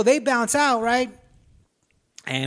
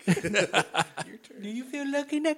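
slow, softer, menacing tough-guy line; 6 semitones higher, 6 dB quieter, much slower than usual. Retold or imitated. Friend retells the gunman's threat, slow and soft. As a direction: drawl the threat out slow and quiet.

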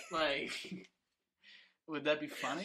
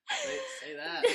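high indignant squeak; slower than usual. Retold or imitated. Acted indignant quote.

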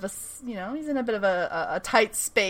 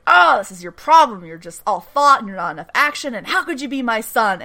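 mock snap; 2 semitones higher, 5 dB louder than usual. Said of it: "he just fucking snaps at him".

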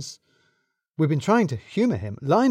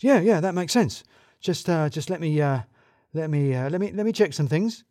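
flustered stalling; 3 semitones higher than usual. Acted. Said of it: "he abruptly pushed past them".

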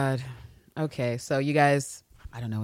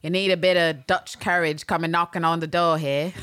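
lightly imitated co-host's character voice; a hint of someone else's acting style; Terrence; 2 semitones higher than usual. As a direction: play it as a light impersonation. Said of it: "do my best Terrence impersonation".

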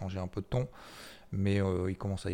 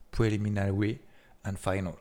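English words said with a put-on English accent; 4 dB louder than usual. A viewer hears the finance vlogger show off an English accent. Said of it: "vous avez vu mon accent".

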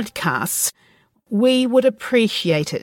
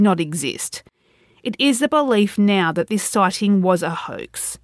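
suspenseful crime show narrator. Acted. True crime podcast narration.

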